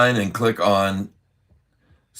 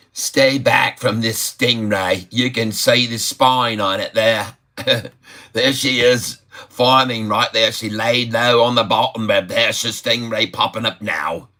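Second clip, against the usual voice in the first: lightly put-on Aussie twang; Australian accent. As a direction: play the excited Aussie market host. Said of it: "typing like the Australians a bit anyway".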